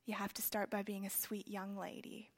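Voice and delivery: lightly voiced kindly old lady; sweet elderly lady. Dear elderly woman advising a younger admirer, lightly voiced old lady. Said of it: "this dear lady looked up at her".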